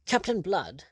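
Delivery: high-pitched astonished exclamation; excited. A narrator's reading. Lord learning who the captain is, excited outcry. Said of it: "exploded in excitement".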